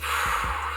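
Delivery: long soft exhale; soft airy whoosh of breath; sigh of release. Retold or imitated. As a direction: blow out slowly as it fades. High slowly wearing off.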